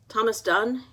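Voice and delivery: loud, sharp demand, pitch up; big man demanding at the office door. Acted. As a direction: bark the name at him. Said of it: "he demanded".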